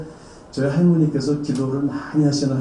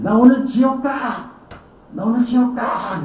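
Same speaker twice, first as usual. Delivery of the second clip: possessed wail; 11 semitones higher than usual. Retold or imitated. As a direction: wail it like a doomed spirit. Possessed sister wails.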